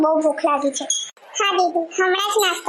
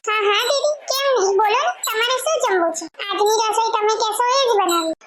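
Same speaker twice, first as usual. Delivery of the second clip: eager to please; 4 semitones higher than usual. Acted. Daughter-in-law eagerly pleases sister.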